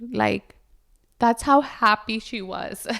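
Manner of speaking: normal talking voice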